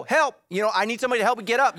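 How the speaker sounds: mock cry for help, high and loud at first; calling for help. Fallen person calling for someone to help, mock calling out. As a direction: call out as if fallen, then hurry on.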